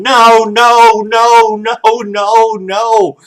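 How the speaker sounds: high, loud mock wailing no's; toddler crying no. Toddler hopping in his crib refusing bed, high loud mock wail.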